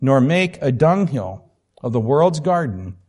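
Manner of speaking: emphatic, measured reading aloud; expressive book reading. Acted. Teacher declaring what pity does, read with weight.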